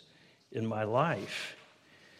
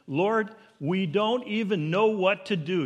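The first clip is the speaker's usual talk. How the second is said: slow, raised pleading to the Lord; earnest prayer; 6 semitones higher, 6 dB louder than usual. Retold or imitated. Preacher quotes the king's prayer, earnest and raised. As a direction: pray it out loud and emphatically. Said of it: "He prays this amazing prayer".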